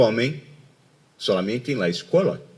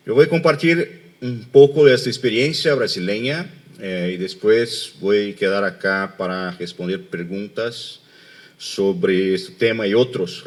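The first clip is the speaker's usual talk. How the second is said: Spanish with a Portuguese accent; portuñol. Real, not acted. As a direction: Brazilian speaking rough Spanish. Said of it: "perdón por mi portuñol".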